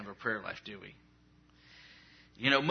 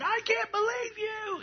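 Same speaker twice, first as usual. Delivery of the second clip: much higher, slow mock incredulous voice; inner disbelief; slower than usual. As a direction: squeak it out slowly in disbelief. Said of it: "And inside you're going".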